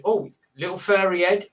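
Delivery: retold sketch in a light mock Aussie voice; mock Australian accent. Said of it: "people doing the accent".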